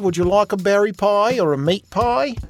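high, sing-song innkeeper woman welcoming a guest; folksy innkeeper lady. Acted. Innkeeper Batima greeting a new guest, high and homey. GM voices Batima offering pies.

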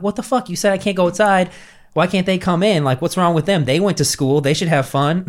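high outraged whine that settles; high whiny protest fading down; indignant kid. Retold or imitated. Kid protesting dad's rule.

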